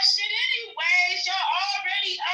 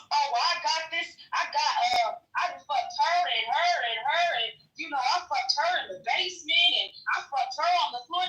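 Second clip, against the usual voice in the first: lower, lightly voiced dopey guy bragging; mock bragging man; 4 semitones lower than usual. Mocking men who brag about who they slept with, low and dopey. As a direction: play a careless guy showing off his hookups. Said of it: "All that shit about".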